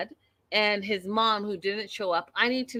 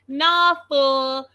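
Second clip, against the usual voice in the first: scoffing dismissal; 6 semitones higher, 5 dB louder than usual. Real, not acted. Ranting at Nick.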